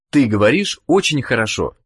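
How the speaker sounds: ordinary talk, nothing marked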